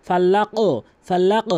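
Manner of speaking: ফাল্লাক with the final ক bounced up and loud; upward qalqalah. Shown as a demonstration. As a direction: push the last letter upward. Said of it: "উপরের দিকে ধাক্কা দিচ্ছি". (উপরের দিকে ধাক্কা)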